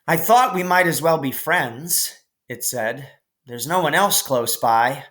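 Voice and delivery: high, mocking child voice; teasing stranger. New kid on the fence teasing a boy afraid of the cow. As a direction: tease him from the fence.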